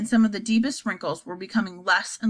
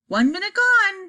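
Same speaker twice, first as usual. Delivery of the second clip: high, slow call of a countdown; excited cry; 10 semitones higher, 4 dB louder than usual. Acted. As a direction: announce it with rising excitement. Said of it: "cried Mister Wonka".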